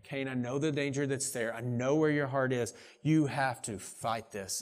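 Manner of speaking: gently, slowing at the end; a caring father's caution; loving warning. Acted. God lovingly warning Cain of the danger, gentle. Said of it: "And God is lovingly saying".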